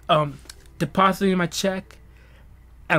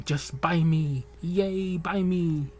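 drawn-out, lightly raised coaxing; pleading gift card; much slower than usual. Acted. Robux card tempting its buyer, mild slow pleading. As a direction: wheedle slowly, lightly voiced. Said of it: "like, saying".

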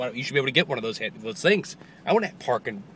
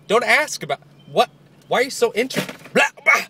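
flustered babble; 9 semitones higher, 5 dB louder than usual. Real, not acted.

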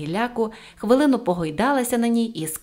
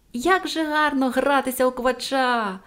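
put-on higher, drawn-out girlish cry; gleeful exclamation; 5 semitones higher than usual. A narrator's reading. Pippi to the policemen chasing her at tag, gleeful exclamation. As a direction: call it out with delight, stretching the words. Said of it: "вигукнула Пепі".

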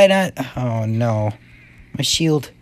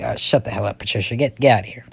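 lower, offhand acted retort; dismissive reply; 4 semitones lower, faster than usual. Shown as a demonstration. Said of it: "Or I'd be like".

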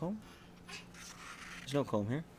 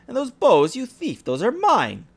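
higher, louder, accusing stepsister; angry stepsister; 10 semitones higher, 3 dB louder, slower than usual. Acted. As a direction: hurl it like an accusation.

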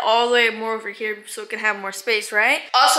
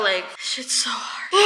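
out of breath; 3 semitones lower, 7 dB quieter, slower than usual. Real, not acted. Breathless, whispered.

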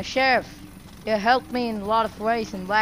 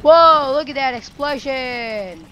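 amazed whoa; 3 semitones higher, 7 dB louder, slower than usual. Real, not acted. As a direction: gasp at the blast. Sees big explosion.

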